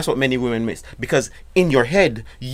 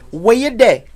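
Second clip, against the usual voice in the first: nicest voice; 10 semitones higher, 7 dB louder than usual. Shown as a demonstration. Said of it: "in your nicest voice".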